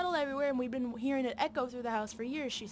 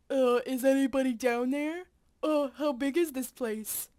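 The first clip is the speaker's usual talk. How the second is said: louder call through a PA speaker; PA announcement call; calling over PA; 4 dB louder than usual. Acted. Calling into mine PA.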